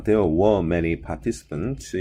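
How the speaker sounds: British-style "there were many participants", R sounds dropped; British pronunciation. Shown as a demonstration. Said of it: "영국식 발음이에요".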